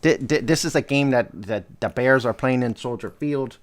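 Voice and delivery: lightly put-on Chicago accent. Co-host doing Bears predictions on request, mock Chicago accent. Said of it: "do your best Chicago".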